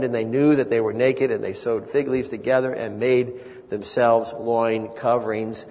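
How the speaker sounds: low, even Bible reading; Scripture reading. A narrator's reading. Reads Scripture aloud.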